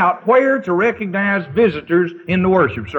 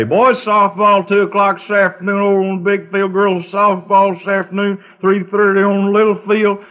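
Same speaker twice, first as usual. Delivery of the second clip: dead monotone announcer; 3 semitones higher than usual. Retold or imitated. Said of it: "he'd go through this dead sort of thing".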